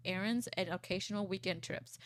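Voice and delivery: ordinary talk, nothing marked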